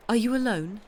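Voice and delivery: anxious breathless whisper-question. Acted. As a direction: ask it almost out of breath. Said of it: "almost breathlessly".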